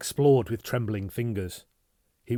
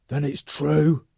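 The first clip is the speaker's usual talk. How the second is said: disbelief; 6 semitones higher, 8 dB louder, slower than usual. Acted. Stunned recognition.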